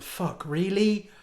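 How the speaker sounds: slow, drawn-out disbelief; slow deadpan "Fuck, really?"; incredulous demo. Shown as a demonstration. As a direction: drag out Fuck, really? slowly and flatly. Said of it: "Like that".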